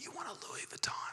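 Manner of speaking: sly, hushed whisper under the breath. Retelling a street vendor's offer to a sister-in-law: imitating a whisper. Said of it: "he whispered under his breath".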